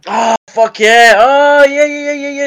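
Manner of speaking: suddenly it clicks, yelp it out; excited remembering. Real, not acted.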